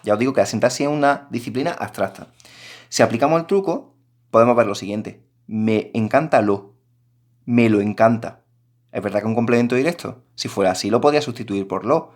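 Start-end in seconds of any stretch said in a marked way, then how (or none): 5.5-6.7 drawn out slowly, testing how it sounds; slow test phrase. Shown as a demonstration. Teacher tries the pronoun swap to students, slowly. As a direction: stretch it out, as if checking it. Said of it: "suena fatal".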